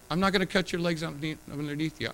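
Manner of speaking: "not" leaned on, pitch up a little; stress on not. Real, not acted. Pastor assures the parents, leaning on not. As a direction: press hard on "not". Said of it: "do you hear me?".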